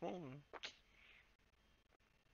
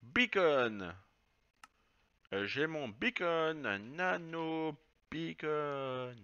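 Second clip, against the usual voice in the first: put-on drawn-out words in a showy English accent; 4 dB louder, much slower than usual. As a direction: show off an English accent on "beacon". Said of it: "avec mon accent". (accent anglais exagéré)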